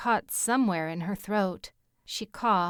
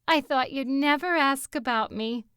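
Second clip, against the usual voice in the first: higher-pitched, gleeful Bronx character voice; gleeful exclamation; 6 semitones higher, 4 dB louder than usual. A narrator's reading. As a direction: exclaim it with delight. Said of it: "Mandy exclaimed gleefully".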